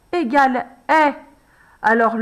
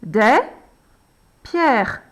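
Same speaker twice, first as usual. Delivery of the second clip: slow dictation. Shown as a demonstration. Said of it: "nous allons l'écrire deux fois".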